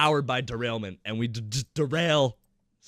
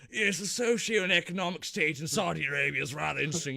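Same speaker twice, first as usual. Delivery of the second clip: posh party guest; 4 dB quieter than usual. Acted. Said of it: "She's going".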